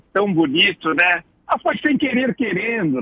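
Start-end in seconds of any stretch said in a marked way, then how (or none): 1.5-3.0 lightly voiced humble apology, higher at the start; simple folk's apology. Professor quoting how simple people apologise, lightly imitated excuse. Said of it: "as pessoas simples têm um modo de desculpar".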